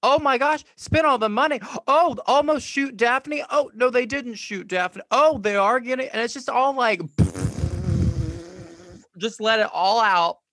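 high, loud breathless play-by-play of the finale, gasping; frantic mock reaction. Friend reenacts watching the show's final minutes, excited and gasping. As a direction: rattle off the cliffhanger in mock panic, gasping.

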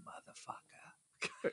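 slow whispered curse under the breath. Pretend. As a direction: hiss it so nobody hears. Muttered insult after fake politeness.

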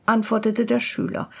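plain reading voice

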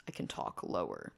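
deliberately deep and low; deep masculine voice. Shown as a demonstration. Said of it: "thinking about having a masculine voice".

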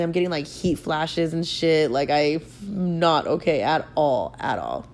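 slow, sick hungover voice. Real, not acted. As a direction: drag it out, feeling ill. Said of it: "hungover and dying".

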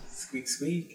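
high squeaky rat noises; rubbery high squeaky toy. Acted. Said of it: "It's the rat from it".

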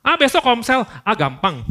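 lazy leader. Retold or imitated. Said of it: "P K S juga begitu".

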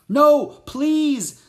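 very high, loud pleading cry; desperate shout. A narrator's reading. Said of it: "shouted Jack".

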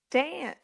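Dance drawn out as "day-ance"; Dance with a broken, drawled vowel; insistent dance pronunciation. Shown as a demonstration. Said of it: "must always be".

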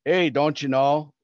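slow Minnesota-Wisconsin lilt; mock Wisconsin-Minnesota accent; imitated Wisconsin accent. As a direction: do a drawn-out Upper Midwest accent. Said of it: "that's Wisconsin, Minnesota, and they're like".

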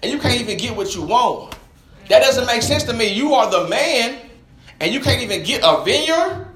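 incredulous challenge, climbing at the end; indignant disbelief. Acted. Wife mocks the king who can't get a vineyard, incredulous. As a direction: question his manhood in disbelief.

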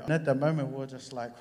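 normal talking voice

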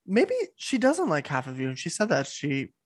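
talking around ice; words through a mouthful of ice. Real, not acted. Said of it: "I have ice in my mouth right now".

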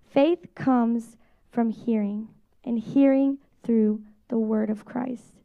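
slow, measured reading of "Faith comes from hearing"; solemn, slow scripture read aloud. Shown as a demonstration. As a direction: read the verse slowly and deliberately, leaning on Faith. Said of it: "So I'll read the scripture".

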